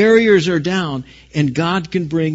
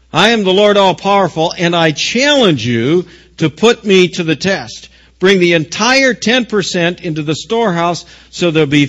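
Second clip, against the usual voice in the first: raised, forceful proclamation; God declaring; 3 semitones higher, 4 dB louder than usual. Acted. God challenging his people through the prophet, forceful declaration. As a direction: preach God's challenge with firm, loud emphasis. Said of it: "Malachi three continues".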